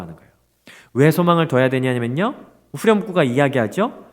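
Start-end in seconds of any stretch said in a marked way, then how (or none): none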